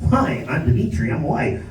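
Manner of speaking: light nerdy white-guy voice. Pretend. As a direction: play a polite white guy introducing himself. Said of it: "I fucking code switch".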